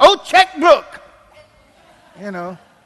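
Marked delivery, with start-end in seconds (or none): 0.0-0.9 high-pitched, loud, sudden blurted-out holler. Acting out what nobody hollers when a car pulls out in front, imitating a holler. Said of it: "Nobody hollers".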